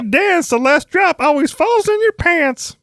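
high sing-song recital; sing-song rhyme. Acted.

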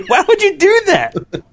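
asked through real laughter; high, slow, laughing disbelief. Real, not acted. Laughing at accidental purchase.

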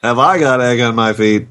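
lightly voiced cartoon stork; Vlasic pickle stork. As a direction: deliver it like the pickle stork mascot. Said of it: "I make it sound like the Vlasic pickle".

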